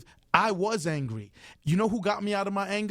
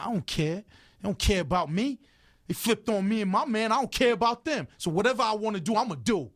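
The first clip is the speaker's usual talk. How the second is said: building angry defiance; 4 semitones higher than usual. Retold or imitated. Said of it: "And I'll be like".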